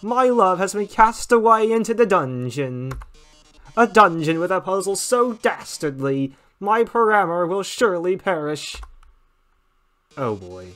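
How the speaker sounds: grand, showy game-show announcing; theatrical robot host. Acted. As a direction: sell the deadly maze like a showman. Reads Mettaton's dungeon speech.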